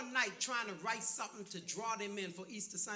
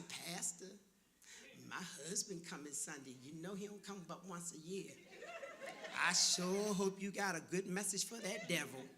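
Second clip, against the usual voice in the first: mock wife's plea; 6 semitones lower, 6 dB quieter than usual. Wife voiced asking pastor.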